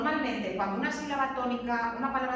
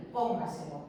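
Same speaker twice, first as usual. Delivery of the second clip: "póngaselo" stressed on PÓN, the rest trailing lower; stress on first syllable; 6 semitones lower than usual. Shown as a demonstration. Teacher pointing out where the stress falls, first syllable of "póngaselo". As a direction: put the voice's force on PÓN in "póngaselo". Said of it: "la fuerza de voz está aquí".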